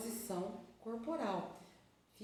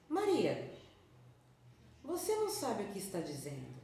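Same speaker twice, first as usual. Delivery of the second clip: contradicting. Shown as a demonstration. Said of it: "pronuncie o nome Maria com entonações diferentes".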